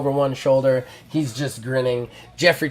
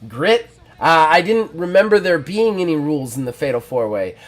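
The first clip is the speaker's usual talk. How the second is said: cocky wrestler. Acted. Wrestler's cocky promo retort.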